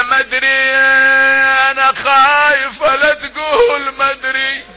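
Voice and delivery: high, keening lament; frightened sister. Acted. Zainab to her brother, a high keening lament.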